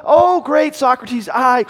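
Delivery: very high, slow, loud pompous cry; pompous young man. Acted. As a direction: stretch out great like a grand fool. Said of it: "this kind of pompous numbskull".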